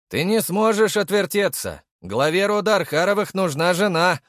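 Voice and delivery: shouting after him. Acted. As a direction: yell it at his back as he walks off. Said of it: "крикнул я ему вслед".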